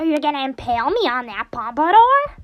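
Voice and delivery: loud mascot voice leaping up at the end; Monokuma impression. Gamer echoing a favorite game line, loud put-on mascot voice. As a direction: act the question with cartoonish outrage. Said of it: "sound like I'm actually Monokuma".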